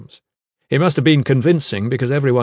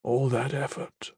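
dying warrior; slower than usual. Acted. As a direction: say goodbye with failing breath. Dying brother's last words.

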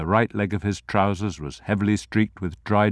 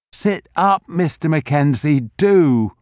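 put-on high, loud worried old man; anxious urging; 7 semitones higher, 4 dB louder than usual. A narrator's reading. Old grocer urging Mackenzie to sit up, anxious. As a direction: urge him up, fretful and pressing. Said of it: "The anxious voice was still there".

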